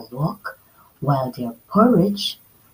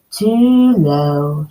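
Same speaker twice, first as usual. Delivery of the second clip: mild scream; 2 semitones lower, 6 dB louder than usual. Acted. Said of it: "she screamed".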